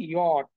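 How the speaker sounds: "ইয়ট" as "yot" with a y glide; letter name "ইয়ট", not English "jay"; German letter J. Shown as a demonstration. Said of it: "সেটাকে তারা বলে হচ্ছে".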